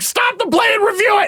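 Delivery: play-acted piercing, very high-pitched scream. Recalling a disputed goal, the speaker re-enacts screaming at the television. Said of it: "I actually screamed at my television".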